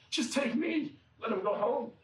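high-pitched plea for a brother; earnest pleading. Retold or imitated. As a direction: offer yourself, begging. Judah begs again for brother.

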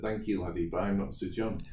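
lightly imitated Scottish accent; a passing Scottish impression. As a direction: quote him with a touch of Scots. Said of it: "in a Scottish accent".

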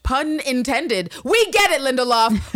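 sarcastic jab. Real, not acted.

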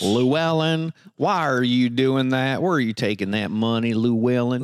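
hammed-up grandpa calling out Llewellyn; scolding old man.

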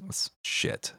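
"That's shit" whispered under breath; whispered aside. Real, not acted. Reacting to Steam sanctions news, a soft whisper. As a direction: breathe it quietly.

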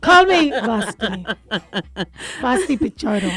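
put-on slow, playful Dominican accent; Vasti Pichardo. Host trying on her new name, mock Dominican accent. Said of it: "My name's gonna be Vasti".

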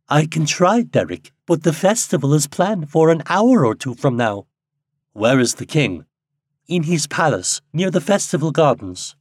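put-on a worried young woman answering quickly; Hope, anxious. A narrator's reading.

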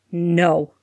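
a mild harsh growl. Acted. Sirius refusing Molly's suggestion, mild harsh growl. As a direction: growl the no at her. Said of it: "Sirius growled so harshly".

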